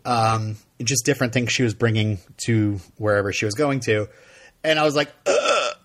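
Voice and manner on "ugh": high, short mock gasp of shock; startled grunt. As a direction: let out a starstruck gulp of surprise. Startled on seeing the star.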